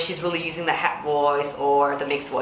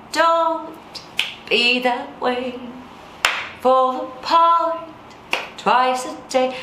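spoken, pitch a bit higher; pitched speech; 5 semitones higher, slower than usual. Shown as a demonstration. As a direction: speak it slow and raised. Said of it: "I'm speaking it basically".

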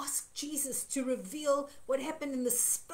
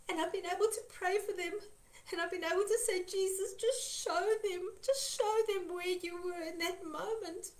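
emotional; 3 semitones higher than usual. Real, not acted. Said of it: "getting so emotional here".

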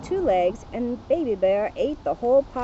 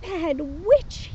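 yelled; 5 semitones higher, slower than usual. Acted. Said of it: "he yelled".

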